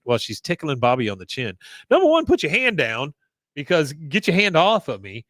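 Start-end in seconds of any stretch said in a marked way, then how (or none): 1.9-5.2 indignant telling-off. Real, not acted. Host telling off the mom.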